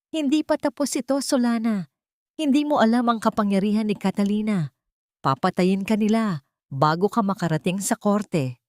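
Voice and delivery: a parting threat, high and cold; threatening. Acted. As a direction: warn her she won't live to reach court. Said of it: "huling banta ni Nando".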